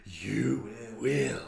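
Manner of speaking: imitated crazed cartoon threat; psycho Squidward. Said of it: "he just goes full psycho mode".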